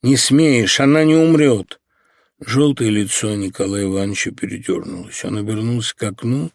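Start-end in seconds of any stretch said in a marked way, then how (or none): 0.0-1.8 insistent defiance. Acted. Dasha continues shouting.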